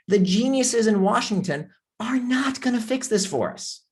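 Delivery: sarcastic whisper. Real, not acted. Sarcastic aside on Washington.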